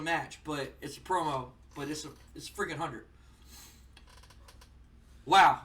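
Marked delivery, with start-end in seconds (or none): 5.2-5.6 amazed wow. Real, not acted. Reacting to a hundred.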